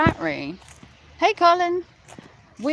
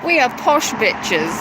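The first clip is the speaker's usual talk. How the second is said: mock posh brag; 4 dB louder than usual.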